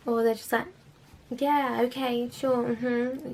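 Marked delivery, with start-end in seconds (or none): 1.3-3.3 mock sarcastic client. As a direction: drawl the yes like you don't believe it. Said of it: "really sarcastically".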